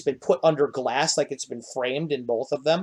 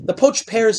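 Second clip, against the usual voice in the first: much higher, louder gnome voice; excited gnome; 8 semitones higher, 5 dB louder than usual. Acted. Gnome host presenting poached pears, much higher and louder. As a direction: announce the pears with delight.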